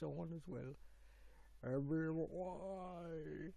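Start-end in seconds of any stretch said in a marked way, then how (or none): 1.6-3.5 put-on slow, drawn-out try at a Canadian accent on "Every Y"; a hesitant, not quite convincing Canadian accent; attempted Canadian accent. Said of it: "I tried to do a Canadian accent".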